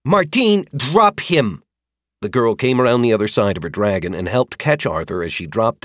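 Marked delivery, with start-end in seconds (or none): 0.1-1.6 calling out. Acted. Rider calls to her dragon.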